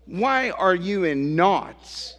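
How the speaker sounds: rhetorical questions building to a high final plea; preaching challenge. Real, not acted. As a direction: press the congregation, lifting sharply on the last question.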